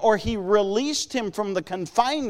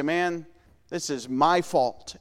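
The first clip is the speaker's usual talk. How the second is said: low, soft, slow self-blame; a hushed, sorry admission; rueful confession; 5 semitones lower, 4 dB quieter, slower than usual. Retold or imitated. A sinner admits fault quietly, low and slow. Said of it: "You say".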